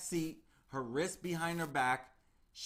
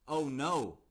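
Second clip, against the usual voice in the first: mock panic; 5 dB louder than usual. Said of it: "get a little panicky".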